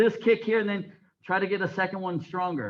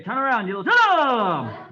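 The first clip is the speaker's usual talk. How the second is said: loud command; 5 dB louder, faster than usual. Real, not acted. Instructor calling turn command.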